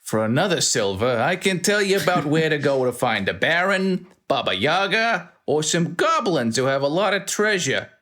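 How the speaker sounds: a sly dealer pushing for cash; Bruno selling information. Acted. Bruno offers the player information, a lightly voiced huckster.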